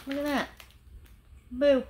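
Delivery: loud playful boo; spooky jump scare, playful. Pretend. Spooky decoration.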